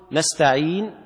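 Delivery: نستعين with the ii held for two counts only; short two-beat stretch on نستعين; two-count madd. Shown as a demonstration. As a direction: shortest allowed length on نستعين. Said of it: "هذا حركتين".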